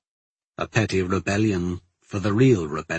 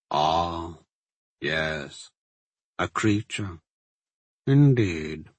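measured villain, savouring each pause; self-satisfied magister. Acted. Magister boasting of his power to the alchemist, smug. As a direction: draw it out with lofty menace.

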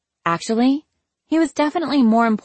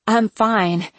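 coughed out; 3 semitones higher than usual. Acted. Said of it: "I coughed out".

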